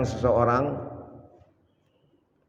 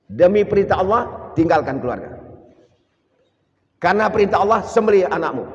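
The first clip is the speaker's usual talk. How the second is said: fervent preaching; 5 semitones higher, 4 dB louder than usual. Real, not acted. Preacher building to climax.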